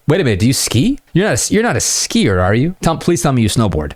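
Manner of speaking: put-on playful teasing of a girl about skiing; playful banter. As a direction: tease her with a grin in the voice. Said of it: "kind of playful banter".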